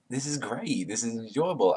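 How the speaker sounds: lightly imitating someone enjoying himself; a touch of acted delight; mock enjoyment. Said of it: "He's, like, enjoying himself".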